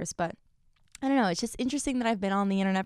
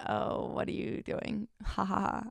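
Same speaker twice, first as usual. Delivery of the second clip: mocking onlooker; 6 dB quieter than usual. Imitating someone belittling her hard work, mocking. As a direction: sneer quietly with a fake laugh. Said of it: "someone else turns around and they're like".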